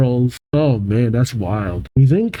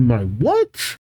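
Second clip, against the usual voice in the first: sharply rising incredulous question; taken aback, pitch leaping at the end; indignant disbelief. Acted. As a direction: swoop up on the last word in disbelief. Crystal shocked at boyfriend remark.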